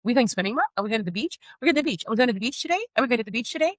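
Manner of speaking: lightly voiced child asking on repeat; mimicking her son. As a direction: nag Mom over and over like an impatient child. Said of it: "he's gonna be like".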